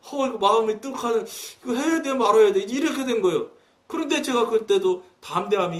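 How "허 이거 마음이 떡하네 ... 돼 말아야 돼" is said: lightly voiced Chungcheong dialect, musing to himself. Pastor recalls his inner doubt, in a touch of Chungcheong dialect. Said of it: "이제 충청도 말로".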